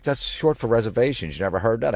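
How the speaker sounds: lightly put-on female voice; mimicked date. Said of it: "She's like".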